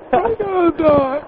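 breaking into laughter mid-wail; laughing through it. Pretend. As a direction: laugh while moaning about dying.

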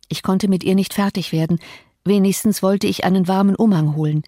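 usual speaking voice

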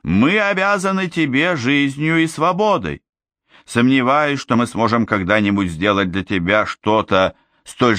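a noble princess addressing her people; regal princess voice. Acted. Ozma continues her speech.

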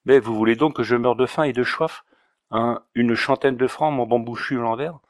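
put-on Auvergnat accent. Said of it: "avec son aimable accent".

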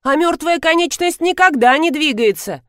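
high, agitated exclamation; mild excited yell; shouting. A narrator's reading. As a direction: keep crying out in high-pitched alarm. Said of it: "закричала Нина".

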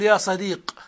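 صديق ends on a bare q; pausal sukun. Shown as a demonstration. Teacher showing the stop with sukun. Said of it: "تقف بالسكون".

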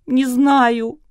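high, loud crushed whimper; crushed sob. A narrator's reading. Girl admits she doesn't know, crushed sobbing whimper. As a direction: sob it out, defeated. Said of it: "убито всхлипнула она".

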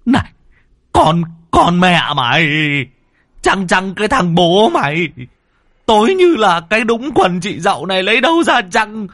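high stuttering shout for help; frantic angry cry. Acted. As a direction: curse him and beg for rescue at once. Drowning man curses and begs.

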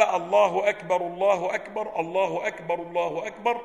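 a loud call to prayer. Shown as a demonstration. Teacher demonstrates the loud call to prayer for students. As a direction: proclaim it out loud. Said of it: "خفض الصوت ورفعه".

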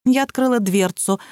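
usual speaking voice

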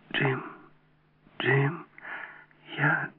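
high, faint, halting whisper; trembling-on-the-brink confession, hushed; barely whispered. A narrator's reading. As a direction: force it out softly through numb lips. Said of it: "едва прошептала она онемевшими губами".

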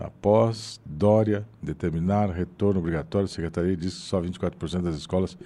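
reads it fast, without pauses; rushed reading. Shown as a demonstration. Student rushing through the text without pausing, fast. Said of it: "Você vai ler o texto pra mim".

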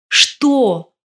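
резкий громкий выкрик, выше голосом; выкрикнуть зло, на срыв; крик. A narrator's reading. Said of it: "заорала Марина". (громкий возмущённый крик)

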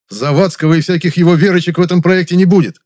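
resolute, commanding declaration; firm statement. A narrator's reading. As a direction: lay it down as final. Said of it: "твёрдо сказал я".

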